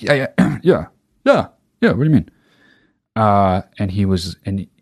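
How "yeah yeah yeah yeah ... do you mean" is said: faking a bright, wide-awake voice to hide a hangover; high, chirpy cover-up voice; put-on awake voice. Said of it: "he saw through all the fucking shit I was trying to do with my voice".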